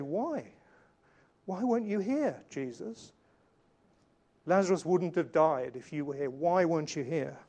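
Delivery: imagined reproachful why. Acted. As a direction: demand an answer as an aggrieved sister might. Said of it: "that would be a great situation to say".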